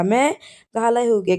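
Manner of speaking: मेघालय drawn out slowly, broken after its first syllable; split-word mnemonic. Shown as a demonstration. Teacher showing students the memory trick, मेघालय slowly split. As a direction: stretch मेघालय slowly into two parts. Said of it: "किस प्रकार से करना है आपको?".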